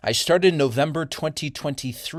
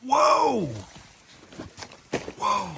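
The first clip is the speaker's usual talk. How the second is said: surprised exclamation; 9 semitones higher than usual. Real, not acted. Sudden surprise outdoors.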